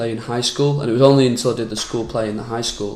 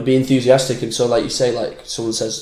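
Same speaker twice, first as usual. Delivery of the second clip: ordinary talk, nothing marked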